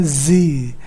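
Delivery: "जी" drawn out as one syllable, zee; isolated syllable. Shown as a demonstration. Teacher counts out the third syllable, "जी" slow and isolated. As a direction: sound out "जी" slowly on its own. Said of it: "then third is".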